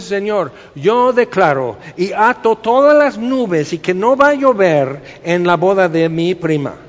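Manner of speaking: loud, confident decree prayer, mocking the style; mock bold prayer. Preacher mocks a believer binding clouds for a wedding, loud mock decree. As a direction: command the clouds like a showy prayer warrior.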